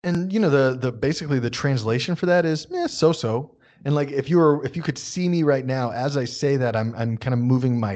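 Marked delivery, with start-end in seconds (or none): 2.7-3.5 noncommittal, slightly raised shrugging tone. Acted. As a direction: shrug it off with a wavering "eh". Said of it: "that so-so type of hand motion".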